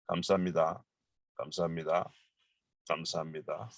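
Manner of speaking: gentle everyday 감사합니다, trailing off; normal thanks. Shown as a demonstration. Teacher modelling everyday thanks, softly. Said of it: "normally you can say".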